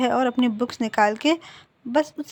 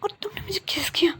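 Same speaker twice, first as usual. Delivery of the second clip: stunned, breathless whisper, higher pitch; shocked whisper; 8 semitones higher, 3 dB quieter, faster than usual. A narrator's reading. Wing, just kissed by Wang, whispers in shock. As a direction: gasp it out in disbelief after the kiss. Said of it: "तो विंग जो है वो shock होके".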